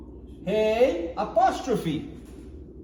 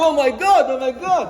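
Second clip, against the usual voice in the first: loud, breezy exclamation tossed off; casual oh my God; 4 semitones higher, 6 dB louder, much faster than usual. Retold or imitated. Mocking people who call to God like a friend, loud and breezy. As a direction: blurt it out like chatting with a buddy. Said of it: "it's their friend".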